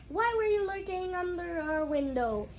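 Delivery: sharp accusing question; livid. A narrator's reading. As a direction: demand it, furious. Livid aunt confronts Harry.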